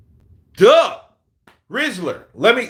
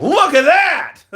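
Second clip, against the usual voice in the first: laughing meme quote; 10 semitones higher, 7 dB louder, slower than usual. Retold or imitated.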